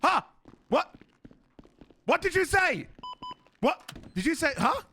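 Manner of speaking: high, loud baffled demand; disbelieving. Real, not acted. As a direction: demand to know what was just said. Baffled demand after muttered remark.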